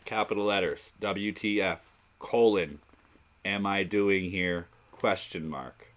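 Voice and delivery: measured, deliberate dictation with pauses; literal read-out. Shown as a demonstration. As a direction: read every punctuation mark aloud, item by item. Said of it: "let me read this properly".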